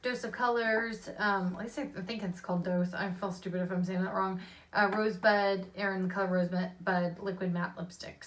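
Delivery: talking around fresh stitches; careful mouth after dental work. Real, not acted. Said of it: "so I have stitches in my mouth".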